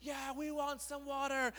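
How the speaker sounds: high, eager crowd reply; excited crowd. Acted. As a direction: cheer it back to the speaker. Excited crowd answers Moses.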